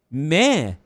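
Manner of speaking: unimpressed meh noise; imitated crowd meh. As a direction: mimic a crowd's indifferent groan. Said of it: "They're doing, like".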